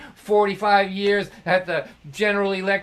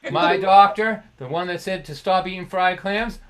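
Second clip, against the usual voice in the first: mock disbelief; 5 dB louder than usual. Dad scoffing about his doctor.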